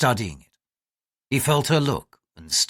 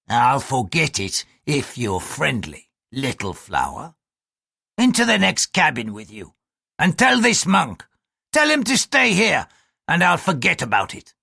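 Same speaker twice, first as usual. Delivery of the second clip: leering bosun. Acted. Bosun pressing Mariko into the next cabin. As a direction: coax her with a threat underneath.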